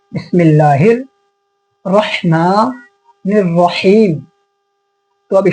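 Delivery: slow recitation, long vowels, pauses between parts; drawn-out, chunked Arabic recitation; broken into small pieces. Shown as a demonstration. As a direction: recite piece by piece for learners to follow. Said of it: "छोटे छोटे हिस्से में करके बता रहा हूँ".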